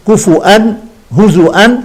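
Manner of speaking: كفؤا and هزؤا with a clear glottal stop; with hamza. Shown as a demonstration. Teacher shows the hamza reading to students, glottal stop marked. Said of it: "يقرأ مهموزا".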